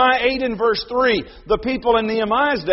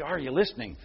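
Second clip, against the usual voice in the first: 1 grandfather's prompt; 6 semitones lower, 9 dB quieter, faster than usual. Retold or imitated. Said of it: "his grandfather then would say".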